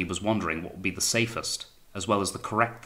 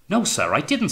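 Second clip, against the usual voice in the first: high, louder plea of innocence; alarmed denial; 10 semitones higher, 6 dB louder than usual. A narrator's reading. Wellard denying the plot to his captain, alarmed. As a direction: protest urgently, voice pitched high.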